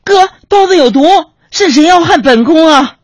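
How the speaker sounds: hammed-up costume-drama shriek; palace-drama consort cry. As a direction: cry out like an empress poisoned. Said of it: "她就在那喊".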